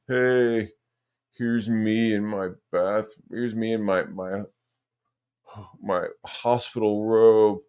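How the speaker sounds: slow, drawn-out imitation of a patient; mock hospital patient. Streamer mimicking his rival in a hospital robe, mock patient. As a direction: lightly voice a patient showing off, dragging words. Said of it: "He's already like".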